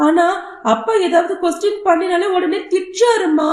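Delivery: put-on a little boy mildly crying to his mother; tearful little boy. Son tearfully explains to mother.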